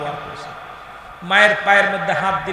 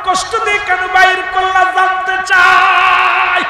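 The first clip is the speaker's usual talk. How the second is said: high, loud crying out in anguish; anguished cry to God; 11 semitones higher, 8 dB louder than usual. Acted. Isa questions God over his mother's pain, loud anguished cry. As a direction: demand the answer from God in grief.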